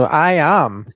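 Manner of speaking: loud, proclaimed line with a German tinge; German-sounding accent. Acted. Co-host proclaims himself in his introduction, loud German-sounding accent. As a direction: proclaim it loudly, vowels leaning German. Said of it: "why are you doing a German accent".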